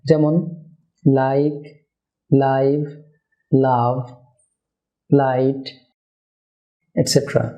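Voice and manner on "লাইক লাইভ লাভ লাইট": L from the tip of the tongue; clear, thin word-initial L; light L. Shown as a demonstration. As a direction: say the L in "লাইক, লাইভ, লাভ, লাইট" lightly with the tongue tip. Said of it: "জিহ্বার আগা থেকে উচ্চারণ হবে".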